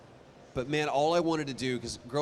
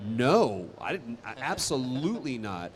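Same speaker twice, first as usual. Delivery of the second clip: firm no; 3 dB louder than usual. Real, not acted. Emphatic denial.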